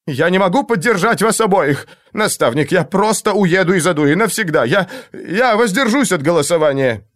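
a cornered noble losing his nerve; shrill panic. Acted. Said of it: "зазвенели визгливые нотки".

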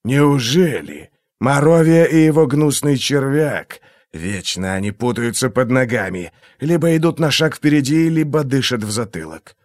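silky, menacing interrogator; a cold torturer toying with his victim; menacing inquisitor voice. Acted. Glokta's held voice.

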